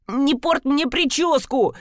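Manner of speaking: возмущённо и протяжно; капризно протестуя, растягивая слова. Acted. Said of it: "запротестовал вор". (обиженный протест)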